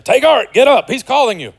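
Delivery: mock crowd. Fickle crowd voiced.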